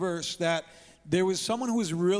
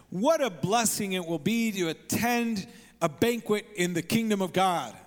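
raised, mildly hammed-up enthusiasm; excited exclamation; 2 semitones higher than usual. Guest at the table reacting to Jesus, excited. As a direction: exclaim it like a delighted dinner guest. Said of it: "he gets excited".

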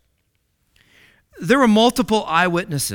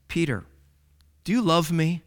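tender; 2 semitones lower, 3 dB quieter than usual. Acted. Jesus asks Peter tenderly.

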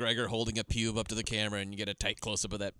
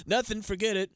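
higher-pitched, feigned innocence; mock brush-off; 8 semitones higher than usual. Teller voices the man caught muttering at her, mock-innocent brush-off. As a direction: lightly act out covering up a muttered remark.

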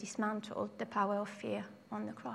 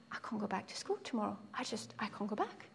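despairing murmur; 9 dB quieter, faster than usual. Retold or imitated. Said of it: "And I'm like".

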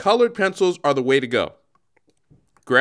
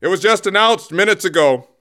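Don Cherry voice; 4 dB louder than usual. Acted. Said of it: "I'm gonna do a Canadian accent".

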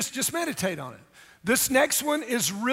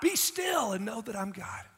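softer, slow, still command; sudden hush; 6 dB quieter than usual. Acted. Pastor voicing God, suddenly soft and slow. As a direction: drop to a calm hush. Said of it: "He said".

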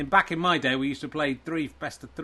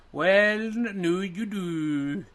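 higher, slow, put-on Viking voice; 4 semitones higher, much slower than usual. Viking me tells Richard about his Viking game, in a lofty voice. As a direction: boast like a proud Viking warrior. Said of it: "You sound like the guys from Galaxy Quest".

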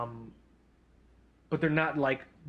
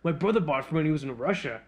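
playing dumb. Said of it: "I just played dumb".

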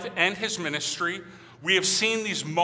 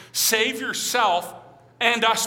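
higher, slow, loud mock demand; angry retold demand; 4 semitones higher, 4 dB louder, slower than usual. Pastor voicing the angry thief to the congregation, slow mock demand. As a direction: lean into the thief's bitter taunt, a touch hammed-up. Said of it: "one thief is angered".

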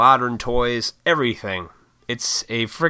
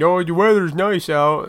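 awkward small talk; 7 semitones higher, 3 dB louder than usual. Retold or imitated. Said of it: "that's such a terrible conversation".

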